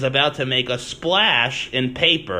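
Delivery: "splash" punched out with a falling tone; stress on splash. Retold or imitated. Host imitating the way he emphasizes splash, stressed on "splash". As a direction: lean on the word "splash". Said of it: "the way he emphasizes splash".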